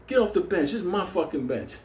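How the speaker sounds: high, hammed-up tough guy bragging; tough-guy threat. New inmate threatening the whole cell, hammed-up tough-guy voice. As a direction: play a movie-style hard man. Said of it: "He tells this motherfucker".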